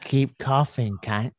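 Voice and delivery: slow, lightly Aussie taunt; mock Australian. Driver teasing a coughing passenger, mock Aussie.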